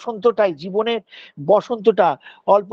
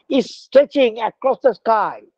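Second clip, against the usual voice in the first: drawn-out description; much slower than usual. Acted. Slow poetic description.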